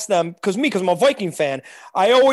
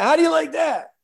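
imitating Cousins; 7 semitones higher than usual. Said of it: "is that what he says?".

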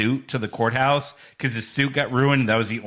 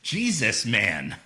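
Gandolfini mumble; slower than usual. Retold or imitated. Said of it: "all you hear is".

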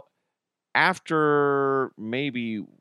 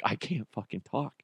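much softer, tense whisper-like; hushed panic; 6 dB quieter than usual. Retold or imitated. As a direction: say it under your breath. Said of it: "I'm like".

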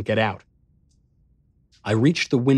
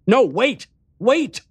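desperate shout, much higher; crying out; 12 semitones higher, 5 dB louder, slower than usual. A narrator's reading. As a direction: call after him in panic. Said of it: "I cried out".

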